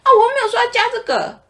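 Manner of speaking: mock complaining customer. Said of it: "他会说".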